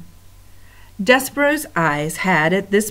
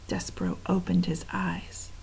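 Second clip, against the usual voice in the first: whisper; 10 dB quieter than usual. A narrator's reading. Hushed narration.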